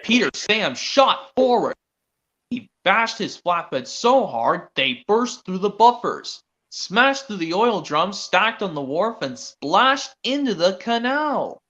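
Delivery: slow, lightly dramatic storyteller read; imitating Brandon. Kid quoting the narrator's crash line, slow and dramatic. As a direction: draw the crash out slowly like a narrator. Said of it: "And then Brandon goes".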